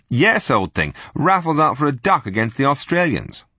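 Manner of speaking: loud, hearty upper-class twit; silly-ass Englishman. Acted. Spy bluffing to the room as a bluff English toff, loud. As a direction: play the blithering English gent.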